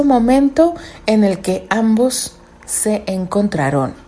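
measured storyteller reading; story narration. A narrator's reading. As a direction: read it like a novel.

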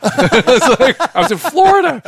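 high laughing disbelief. Real, not acted. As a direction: laugh it out, amazed. Laughing at the coincidence.

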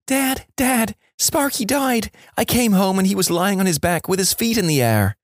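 put-on high-pitched upset little boy; mock tearful child. Little Johnny tells dad the pet died, mock tearful. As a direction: play a distraught kid, no real sobbing. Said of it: "comes running in in tears".

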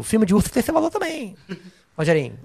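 high, lisping character voice; Renan voice. Retold or imitated. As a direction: lift it into Renan's sing-song lisp. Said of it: "que é a frase dele". (voz do Renan com língua presa)

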